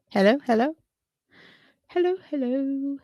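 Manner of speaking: high call down a bad line; shouting into a phone. Real, not acted. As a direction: call out over a broken connection. Call breaking up, calling out.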